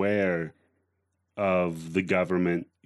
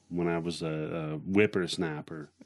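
put-on old prospector; 4 semitones lower, 5 dB quieter than usual. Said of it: "That have a slur when you say that, like you got dentures".

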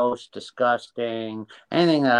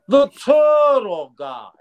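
put-on New Jersey accent; 13 semitones higher, 8 dB louder, slower than usual. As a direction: do a New Jersey mob guy on the phone. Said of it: "And he talked like this".

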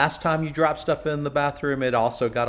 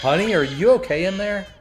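raised voice calling through a closed door; 8 semitones higher, 6 dB louder than usual. Acted. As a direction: call out to someone in the next room. Calling to someone behind door.

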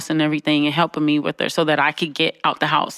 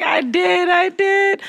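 high, laughing confession; sheepish admission; 12 semitones higher, much slower than usual. Retold or imitated. Daughter to mom, high giggly confession. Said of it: "I was like".

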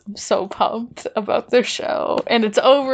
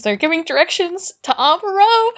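higher-pitched eager retelling; rising excitement; 6 semitones higher than usual. Real, not acted. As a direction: tell it with growing excitement. First take of excited retelling.

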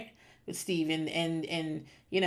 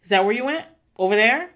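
jealous accusing rant; 3 semitones lower, 4 dB louder, faster than usual. Pretend. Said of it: "I'd be like".

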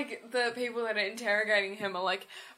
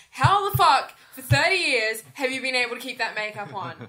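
incredulous; 4 dB louder than usual. Retold or imitated. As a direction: retell it in baffled disbelief. Retelling her disbelief at makeup.

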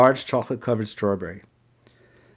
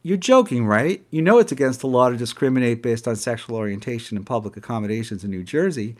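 a little louder. Retold or imitated. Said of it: "getting just a little bit louder".

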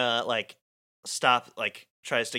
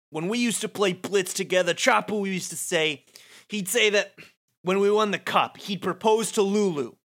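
upset Wakka; 8 semitones higher, 3 dB louder than usual. Acted. Wakka's bitter memory.

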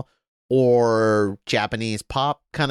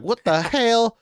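mocking gamer; 10 semitones higher, slower than usual. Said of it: "Call of Duty guys were like".

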